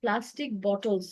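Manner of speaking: প্লাস্টিক বটলস said slowly as a model; correct pronunciation. Shown as a demonstration. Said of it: "হবে উচ্চারণ".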